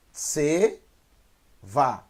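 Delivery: TSE, pause, VA, each syllable drawn out separately; slow syllable-by-syllable reading. Shown as a demonstration. Hebrew teacher first sounding the word out for learners, slow and split. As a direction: read "Tse, va" slowly in two split syllables. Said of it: "vou ler devagar".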